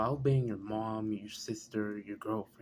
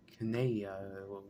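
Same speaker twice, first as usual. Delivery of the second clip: ordinary talk, nothing marked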